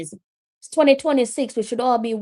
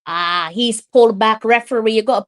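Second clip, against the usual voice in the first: loud protest; 6 dB louder than usual. Real, not acted. Commentator reacts to a foul.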